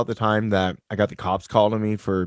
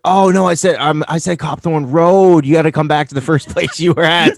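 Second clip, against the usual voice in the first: laughing mock reply; 7 semitones higher, 4 dB louder than usual. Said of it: "And you're like".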